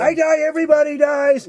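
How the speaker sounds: high, loud hammed-up dying woman; dying character's line. Retelling a film's dying woman, hammed-up high and loud. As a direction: wail it out as mock melodrama. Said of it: "And she's like".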